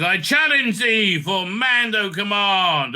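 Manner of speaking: slow, mock-grand challenge; formal challenge. Bo-Katan challenging the Mando leader, slow mock-formal. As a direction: announce the duel with solemn pomp.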